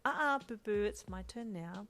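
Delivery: no way, it's mine; sassy refusal. Acted. Uncle refusing to share the baby, sassy.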